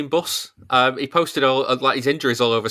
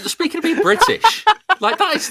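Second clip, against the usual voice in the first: words pushed out through high laughter; laughing while talking; 4 dB louder than usual. Real, not acted. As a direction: talk through the giggles, higher. Laughing at clip.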